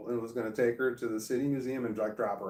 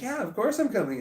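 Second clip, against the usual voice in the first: mocking the mom; 10 semitones higher, 4 dB louder than usual. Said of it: "she's like".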